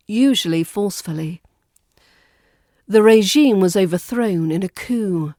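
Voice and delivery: ordinary talk, nothing marked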